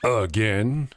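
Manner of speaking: slow, lightly acted commercial voice; commercial voiceover, imitated. Host quoting his own commercial's voice, slow imitation. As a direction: draw it out like a solemn accusation, lightly imitated. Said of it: "you'll hear a voice that says".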